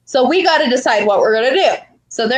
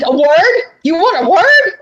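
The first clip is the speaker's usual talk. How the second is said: mock indignant; 6 semitones higher, 5 dB louder than usual. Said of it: "she's like".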